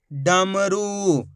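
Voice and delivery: डमरू drawn out slowly as one joined word; letters blended. Shown as a demonstration. Teacher showing what the letters make, blended slowly. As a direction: run ड, म, रू together, stretching the vowels. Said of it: "तो मिलके बन जाएगा".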